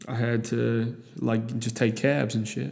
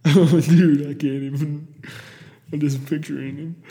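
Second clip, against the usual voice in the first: tag; 3 semitones higher, 5 dB louder than usual. Real, not acted. Cracking up picturing the driver.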